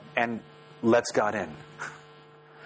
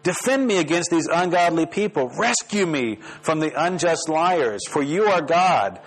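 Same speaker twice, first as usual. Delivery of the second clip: raised, insistent plea to God; demanding prayer; 4 semitones higher than usual. Acted. Preacher reads out the psalmist's plea to God, demanding. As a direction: pray it boldly, pitch lifted, as a demand. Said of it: "it's a pretty demanding prayer".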